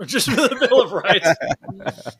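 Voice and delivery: high, loud and slow through laughter; laughing. Real, not acted. Joking with friends about a gun show, laughing hard. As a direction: crack up while getting the words out.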